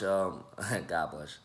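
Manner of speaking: brief chuckle over his own slip; laughing at himself. Real, not acted. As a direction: chuckle at yourself, then carry on slowly. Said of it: "learn to laugh at yourself".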